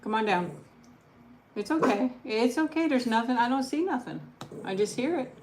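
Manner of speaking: high, gentle reassurance; calm the dog down; soothing pet voice. Real, not acted. Soothing her scared dog.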